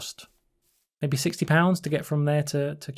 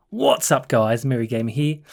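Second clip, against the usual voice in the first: Merry Gamer. Retold or imitated. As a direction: imitate a gamer's channel intro, pitched up at first. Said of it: "think of the Merry Gamer".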